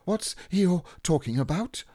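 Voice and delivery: high, hushed little voice; small creature asking furtively on the side; whispering Piglet. A narrator's reading. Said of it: "Piglet whispered to Pooh".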